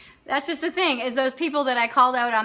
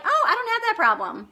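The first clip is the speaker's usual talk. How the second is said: mock denial; 9 semitones higher than usual. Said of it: "I'm gonna be like".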